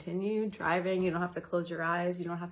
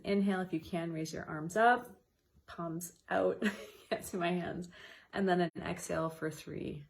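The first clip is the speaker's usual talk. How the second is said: counted breathing with movement. Shown as a demonstration. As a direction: lead the breath and arm raise gently. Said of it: "incorporate movement with that".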